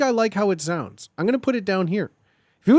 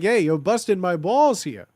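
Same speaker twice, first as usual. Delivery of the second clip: lightly put-on Italian wise guy; hint of an Italian mob accent; mock Italian mobster accent. Shown as a demonstration. Streamer showing what always works, light Italian mob accent. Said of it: "The Italian mob vibes".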